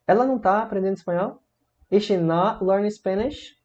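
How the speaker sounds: "Ela não tá aprendendo espanhol" high, rising question; negative question intonation. Shown as a demonstration. Teacher repeating the negative question, "Is she not learning Spanish" high and rising. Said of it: "Frases interrogativas na negativa".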